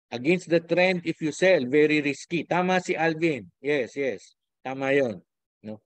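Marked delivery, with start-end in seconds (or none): none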